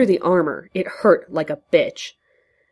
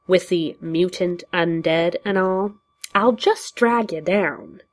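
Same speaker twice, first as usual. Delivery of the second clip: rueful. Acted. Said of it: "just rueful".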